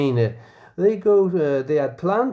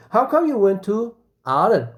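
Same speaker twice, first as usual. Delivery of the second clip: teasing friend; 7 semitones higher, 3 dB louder than usual. Acted. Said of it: "A F says".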